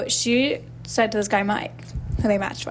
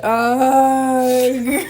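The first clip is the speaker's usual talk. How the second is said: mock groan; 2 semitones higher, 5 dB louder than usual. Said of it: "And she said".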